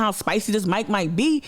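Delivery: ordinary talk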